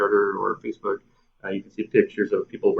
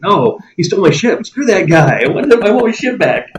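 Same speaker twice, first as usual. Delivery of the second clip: louder, higher indignant retort; mock outrage; 10 semitones higher, 8 dB louder than usual. Player wronged over a stolen ship, hammed-up outrage.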